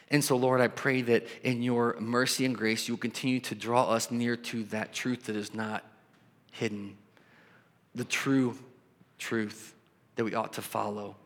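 earnest prayer voice, steady and reverent; pastoral prayer. Acted. Pastor praying over the church, earnest and reverent. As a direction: pray it over the congregation, sincere and measured.

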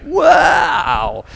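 high, loud gasp of wonder; a kid awed by the big dive; amazed wow. Retold or imitated. Kid at the pool calling out in awe. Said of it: "and you'd be like".

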